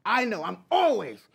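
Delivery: wrestling promo. Pretend. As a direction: taunt the opponent. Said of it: "cut a promo on the fly".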